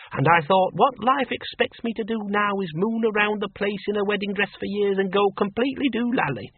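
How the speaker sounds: Miss Flitworth. A narrator's reading. Farm woman voiced in story.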